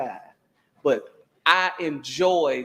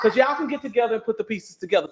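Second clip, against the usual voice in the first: exasperated; 5 semitones higher than usual. Retold or imitated. Retelling her own heated reply.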